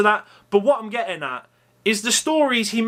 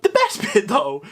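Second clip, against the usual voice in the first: laughing; 7 semitones higher than usual. Real, not acted. Laughing at Linda's comment.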